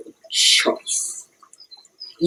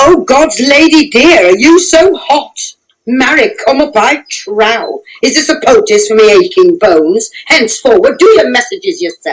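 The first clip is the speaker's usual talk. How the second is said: scolding; 6 semitones higher than usual. Acted. Nurse scolds Juliet.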